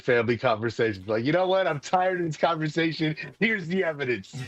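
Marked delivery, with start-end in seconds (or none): 1.1-4.3 higher-pitched fed-up outburst; mock exasperation. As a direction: play someone sick of arguing. Mock fed-up family argument.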